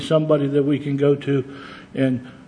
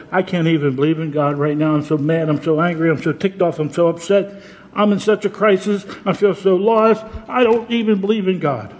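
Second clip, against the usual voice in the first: despairing person venting; 2 semitones higher than usual. Retold or imitated. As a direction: let a hurting man's frustration build line by line. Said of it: "going through tragedy or going through things that said".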